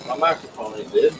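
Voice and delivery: muffled, dead-mic sound; like talking inside a fishbowl. Real, not acted. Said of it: "sounds like you're in a fishbowl".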